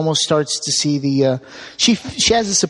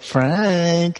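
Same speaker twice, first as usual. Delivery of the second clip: mock Cenobite call. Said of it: "the female Cenobite or something to just go like".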